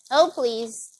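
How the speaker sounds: ordinary talk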